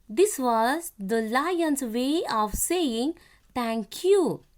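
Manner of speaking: slow, deliberate textbook reading with long pauses; careful classroom read-aloud; reading to children. A narrator's reading. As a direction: read it out phrase by phrase for young pupils. Reads lesson aloud to children.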